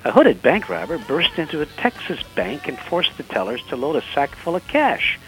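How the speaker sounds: animated, swooping storyteller delivery; joke storytelling. Acted. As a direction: tell the joke like a dramatic crime tale. Tells joke of the month.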